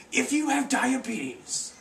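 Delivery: slow, high-pitched cowboy commercial voice; hammed-up TV pitchman cowboy, very slow; overweight cowboy. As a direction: draw out the warning like a mustached cowboy. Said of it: "impression of an overweight cowboy with a bushy mustache".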